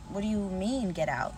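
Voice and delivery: mildly baffled questioning, retold; confused. Couple questions the priest's order to leave, confused. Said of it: "They're standing there confused".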